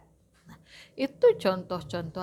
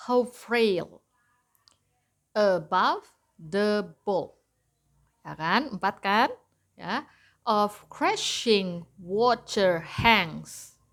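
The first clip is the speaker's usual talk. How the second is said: counting syllables; slower than usual. Shown as a demonstration. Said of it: "kayak gitu ya".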